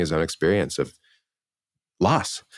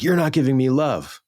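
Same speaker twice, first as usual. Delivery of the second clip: mock needy complaint; 8 semitones higher than usual. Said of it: "Instead of being like".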